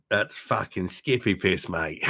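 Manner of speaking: lightly put-on Aussie accent, drawn out; imitated Australian accent. Retelling a local's verdict on the beer, mock Australian accent. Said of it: "his Australian accent".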